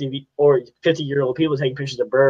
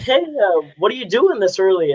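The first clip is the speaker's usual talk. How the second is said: lightly voiced cop, pitched higher; questioning cop; 6 semitones higher than usual. Young photographer retelling a police stop, lightly imitating the questioning cop. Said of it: "and they're like".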